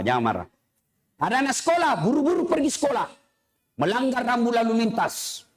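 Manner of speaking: ordinary delivery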